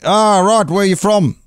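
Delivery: high-pitched impression of a curious local woman; imitating outback lady. Outback lady asking a stranger's origins, imitated high voice. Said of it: "the ladies were like".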